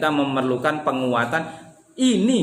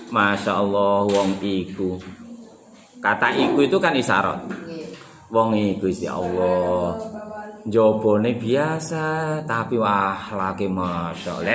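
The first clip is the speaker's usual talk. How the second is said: hushed admiring praise; admiring awe; 9 semitones lower than usual. Shown as a demonstration. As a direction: marvel at a respected man. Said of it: "betul-betul mengagungkan".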